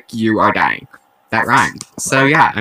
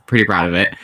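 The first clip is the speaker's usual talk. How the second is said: under the weather after his vaccine shot; sick voice; 2 semitones lower than usual. Real, not acted. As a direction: talk like you're fighting off a bad flu. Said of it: "if I sound like I'm dying".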